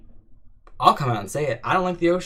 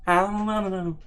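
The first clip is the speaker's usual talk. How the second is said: higher, breathy pop-star imitation; a hint of a pop singer, higher; pop-singer impression; 6 semitones higher than usual. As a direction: do the pop-singer bit lightly. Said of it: "the speaker's pop-singer impression".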